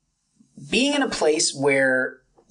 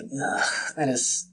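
whispered, slow and disgusted; scolding yourself over a stupid choice, whispered; whispered self-scorn; 4 dB quieter, slower than usual. Retold or imitated. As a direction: hiss it at yourself.

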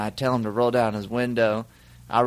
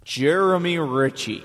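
drawn-out echoing announcement of a name; 3 semitones higher, slower than usual. Pretend. Radio sidekick announcing his friend's name on request, echo voice. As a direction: say the name slowly, as if it echoed. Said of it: "put echo in his voice and say his name".

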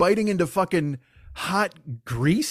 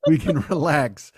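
lightly voiced Burgess Meredith relief, slow; a hint of the old man who finally has time; 3 semitones lower, 3 dB louder than usual. The speaker as Burgess Meredith, savoring finally resting. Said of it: "Burgess Meredith at the end of Twilight Zone".

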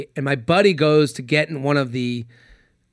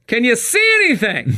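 higher-pitched mock holler; retold yell; 7 semitones higher than usual. Friend yelling to the diver from the dock, mock holler. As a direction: call down to someone in the water. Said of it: "And I yell out".

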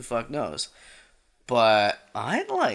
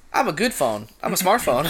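robot phone voice; 3 semitones higher than usual. Pretend. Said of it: "Jimmy Phone".

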